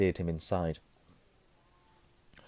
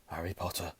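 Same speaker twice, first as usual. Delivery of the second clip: hushed awe; 7 dB quieter than usual. A narrator's reading. Old barman names Harry, hushed and awed. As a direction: breathe the name in wonder. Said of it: "whispered the old barman".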